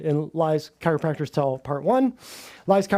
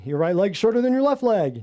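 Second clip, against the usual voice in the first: mock chiropractor claim. Listing chiropractor lies to viewers, mildly mocking. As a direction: parrot the pitch lightly. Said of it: "This one right here".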